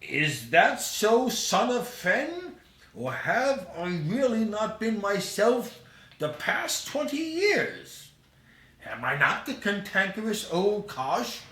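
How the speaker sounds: put-on old Scrooge voice.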